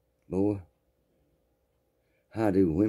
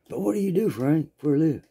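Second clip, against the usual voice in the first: put-on prying girl voice; 8 semitones higher than usual. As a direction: lean in and pry sweetly. Girl presses Frank.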